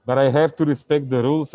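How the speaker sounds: speaking through a face mask; muffled by mask. Real, not acted. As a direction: talk muffled behind a mask. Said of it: "can you understand me speaking with the mask".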